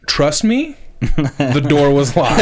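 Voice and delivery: exasperated dad laughing it off; laughing insistence. Retold or imitated.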